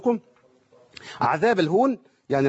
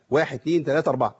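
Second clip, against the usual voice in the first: steady four-count for the elongation; counting the beats; faster than usual. Shown as a demonstration. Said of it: "ده الزمن بتاعي".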